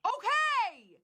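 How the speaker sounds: sharp, loud snapped Okay; loud exasperated outburst; angry shout. Real, not acted. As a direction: bark it out in real anger. Angry argument with family member.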